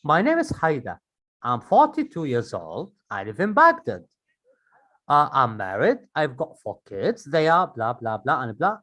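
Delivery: conversational answer stressing the main words; varied intonation. Shown as a demonstration. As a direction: play with intonation, as in natural speaking. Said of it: "I changed the intonation here".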